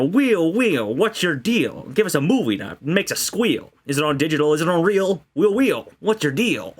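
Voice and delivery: put-on old-time gangster patter; fast-talking forties announcer; radio announcer voice. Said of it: "I'll do a little gangster voice".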